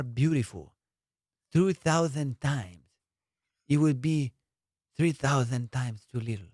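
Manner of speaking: put-on crooning a compliment in a light Spanish accent. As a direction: woo her in a mild Spaniard accent, taking your time. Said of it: "Can you do a Spaniard one?".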